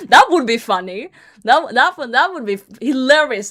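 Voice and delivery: loud laughter through the words; loud laughing sarcasm; laughing hard. Real, not acted. Laughing at the plan.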